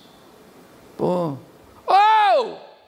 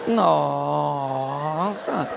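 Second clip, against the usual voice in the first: laughing mock surprise; 6 semitones lower, much slower than usual. Mock surprise at seeing you.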